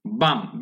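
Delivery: বাম with an open "a" and silent final b; open-vowel pronunciation. Shown as a demonstration. Teacher showing how it should be pronounced, open-vowel pronunciation. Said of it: "বি তো silent থাকলো".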